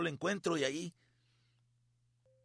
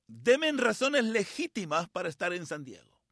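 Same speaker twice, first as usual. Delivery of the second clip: slow, louder retold demand; emphatic demand; 2 semitones higher, 5 dB louder than usual. Retelling his phone request for a San Diego trip, emphatic demand. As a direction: drag it out as an emphatic plea.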